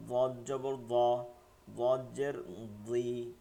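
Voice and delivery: ضا and ضي spelled out with a thick, heavy dad. Shown as a demonstration. Teacher spells the letter with its vowels, heavy dad. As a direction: keep ضا full and heavy, ضي just as thick. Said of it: "দতটা মোটা হচ্ছে জবরে".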